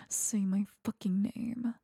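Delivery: urgent whisper, quick and pressing; whispered demand. Acted. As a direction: hiss the demand under your breath. Escalating demand, repeated line.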